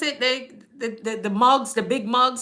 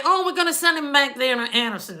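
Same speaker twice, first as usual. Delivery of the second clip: light imitation of the colleague's way of talking; imitating colleague; 3 semitones higher than usual. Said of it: "That's how he talked".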